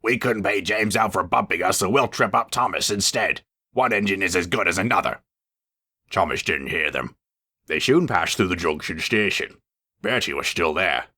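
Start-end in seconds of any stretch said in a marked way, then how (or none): 0.0-5.2 cross, plotting truck voices; sneaky trucks. Acted. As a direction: plot revenge spitefully. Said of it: "The trucks were still cross".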